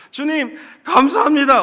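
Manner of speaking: shouted thanks. Retold or imitated. Man kneeling on the highway shouting thanks, loud and slow. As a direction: lift both hands and shout it to God. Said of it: "막 큰 소리로 외치는데".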